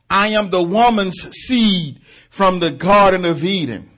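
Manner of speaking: high, loud proclaiming voice of Christ; voicing the Son of God. Preacher voicing Christ at the door, loud proclaiming. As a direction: declare each line like a king.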